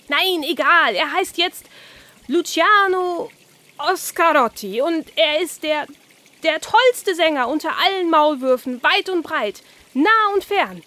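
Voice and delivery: the carp crowning Oskar a famous tenor; grand carp voice. Acted. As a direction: announce him like a star.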